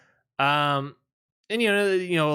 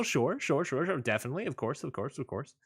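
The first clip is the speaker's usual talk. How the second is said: mock agreement fading; 6 dB quieter, faster than usual. Mocking commentator's praise.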